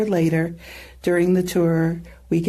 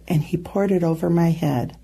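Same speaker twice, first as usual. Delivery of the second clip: ordinary talk, nothing marked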